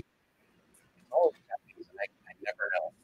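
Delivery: breaking up, fading in and out; bad connection, voice cutting out; call dropping out. Real, not acted. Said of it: "your sound is going out a bit there".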